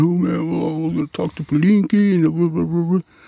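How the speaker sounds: flustered stammering, tripping over words. Retelling how someone answered when confronted: imitating someone stuttering. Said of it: "he was all stuttering".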